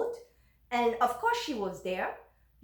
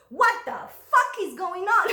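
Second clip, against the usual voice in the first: louder and higher, laughing through the mock yell; retold outburst; 6 semitones higher, 7 dB louder than usual. To the mother-in-law at the second appointment, a laughing mock yell. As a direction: recreate the blow-up half laughing. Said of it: "I exploded. I screamed".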